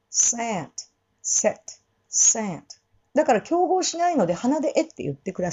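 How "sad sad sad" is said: sad with a nasal a; 鼻にかけたsad. Shown as a demonstration. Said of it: "繰り返していくよ".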